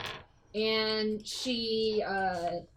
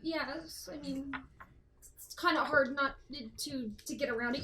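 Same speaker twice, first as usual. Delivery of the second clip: sheepish mumble; 6 dB quieter than usual. Acted. Caught NPC mumbles excuses.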